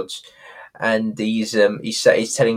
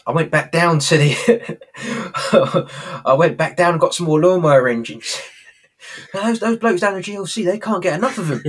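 laughing Rodney; 6 semitones higher than usual. Retold or imitated. Rodney retold, laughing through it.

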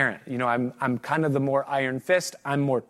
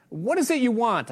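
a sharp, impatient snap, pitched higher; snapped; 7 semitones higher than usual. Acted. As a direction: snap at the child interrupting you. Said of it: "I snapped".

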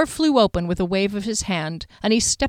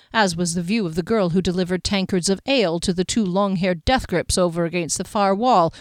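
plain reading voice

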